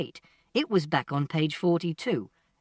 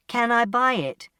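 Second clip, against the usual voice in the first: higher, more forceful asking; insistent question; 6 semitones higher, 4 dB louder than usual. Acted. Customer to silent shopkeeper, insistent. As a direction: press for an answer with raised pitch. Asks again after no answer.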